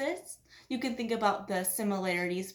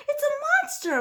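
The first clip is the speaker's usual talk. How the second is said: moaned; 7 dB louder, faster than usual. A narrator's reading. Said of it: "moaned Mama Bear".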